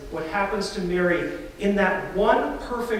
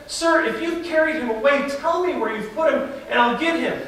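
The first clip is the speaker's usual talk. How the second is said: higher, firm demand, not to be trifled with; determined demand; 5 semitones higher than usual. Acted. Mary demanding the gardener tell her where Jesus is, firm and fed up. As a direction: insist like a grieving woman out of patience. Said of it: "This is not a woman to be trifled with now".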